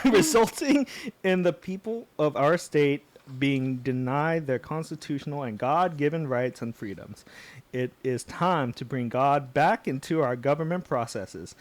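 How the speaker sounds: put-on Southern candidate reading; earnest mock Southern accent. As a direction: read it out like a Southern politician. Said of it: "like, a convincingly southern accent".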